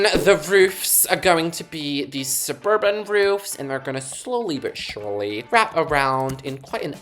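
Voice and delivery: light American accent creeping in; drawn-out, lightly American-accented delivery; slipping into American accent. Real, not acted. Builder describing suburban roofs, accidental American accent. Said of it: "I've caught an American accent there".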